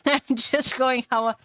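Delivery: slow, halting talk through laughter; laughing. Real, not acted. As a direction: giggle while trying to explain yourself. Laughs explaining own pronunciation.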